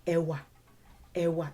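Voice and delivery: e wa run together, both tones low. Shown as a demonstration. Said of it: "even if you say it faster".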